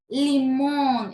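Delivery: "Limón" drawn out and loud, force on the last syllable; teacher showing the accented final syllable of "Limón"; stress on MÓN. Shown as a demonstration. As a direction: sound out li-MÓN emphatically. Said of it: "tenemos lo que es la tilde en la última".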